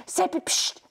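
unvoiced whispered call with a psst. Kasperl secretly waking the sleeping Seppel, whispered. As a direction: hiss his name so nobody else wakes.

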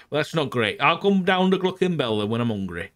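put-on Yorkshire accent with a touch of Geordie; casual Northern English brogue. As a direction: play it as a Northern UK local.

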